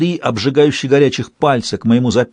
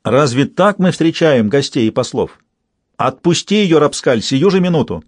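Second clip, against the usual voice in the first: commanding queen; 3 semitones higher than usual. Acted. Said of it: "крикнула повелительно".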